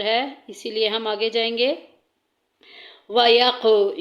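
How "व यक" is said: व यक with the क released loose and echoing; qalqala bounce. Shown as a demonstration. Teacher showing students the qalqala on यक, loose echoing release. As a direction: let the क in यक bounce and ring out. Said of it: "यक में आवाज़ ढीली होके, गूंज के निकलेगी".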